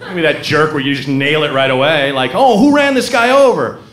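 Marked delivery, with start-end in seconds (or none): 2.3-3.8 higher-pitched voice of someone asking; acted questioner. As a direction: ask it in a raised, put-on voice. Voices someone asking about a hit-and-run.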